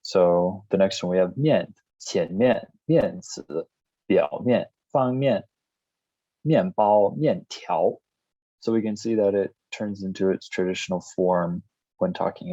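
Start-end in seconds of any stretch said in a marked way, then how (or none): none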